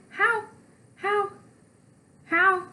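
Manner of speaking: high repeated disbelief; can't believe your eyes; shocked. Acted.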